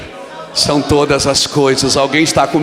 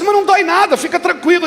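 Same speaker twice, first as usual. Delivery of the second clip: mock reassuring doctor; 12 semitones higher, 3 dB louder than usual. Doctor reassuring crying pastor.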